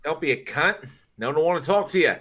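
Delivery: high-pitched comic telling-off; playfully indignant rebuke; mock scolding. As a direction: tell someone off in a put-on voice. Acting out scolding of rude person.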